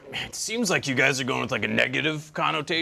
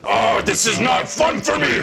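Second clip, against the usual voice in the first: projected mock complaint; 5 semitones higher than usual. Losing points to John, projected mock shout. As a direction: throw the voice to the back row. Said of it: "I projected my voice".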